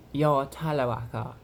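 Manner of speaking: lightly put-on Brighton British voice; Tyler. Shown as a demonstration. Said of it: "He more, more, like, speaks like".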